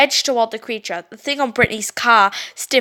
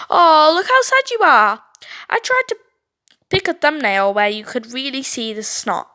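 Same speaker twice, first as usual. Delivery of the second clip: mock pity; 3 semitones higher, 3 dB louder than usual. Brittany taunting with post.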